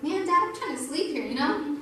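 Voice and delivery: mock annoyed. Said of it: "I was mad".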